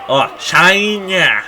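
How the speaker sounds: high, slow excited cry. Real, not acted. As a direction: react with sudden excitement. Excited live reaction.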